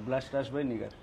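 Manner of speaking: low, soft promotional plug; nicer promo read. Shown as a demonstration. Host showing the guest how to promote her makeup artist, nicer promo read. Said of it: "আর একটু সুন্দর করে promotion করেন".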